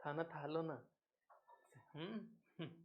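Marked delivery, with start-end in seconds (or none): 0.1-0.9 slow lisping lovey-dovey coo; slow mock baby-talk coo. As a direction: pretend to sweet-talk a lover on the phone. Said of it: "phone पे मम्मा को बोल रहे हैं".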